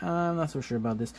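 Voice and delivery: Spider-Man. Retold or imitated. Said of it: "Spider-Man, he's like".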